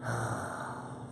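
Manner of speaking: soft, long breathy sigh. Real, not acted. Streamer waiting on broken audio, soft sigh. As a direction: let out a quiet sigh.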